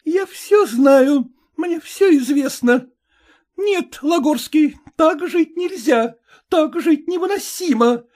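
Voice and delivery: high, loud, breaking into despair; wife accusing her husband of lying; jealous fury. A narrator's reading. Wife's jealous quarrel continues. (ревнивый надрыв)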